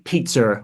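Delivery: "pizza" in an American accent with an R-coloured ending; tough American R. Shown as a demonstration. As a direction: lean on American sounds in "pizza". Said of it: "being very tough on, on the R".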